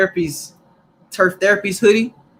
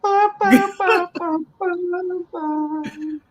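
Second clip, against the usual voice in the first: high sung "bow bow" riff; soft, high vocalized tune; mock crooner backing; 11 semitones higher, 4 dB quieter than usual. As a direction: imitate a slow-jam backing line. Hummed music behind the crooner impression bit.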